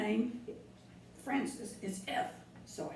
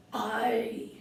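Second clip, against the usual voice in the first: a louder hearty aye; pirate aye; 6 dB louder than usual. Shown as a demonstration. Showing kids pirate talk, a mild hearty aye. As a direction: say aye like a ship's hand. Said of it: "learn to talk like a pirate".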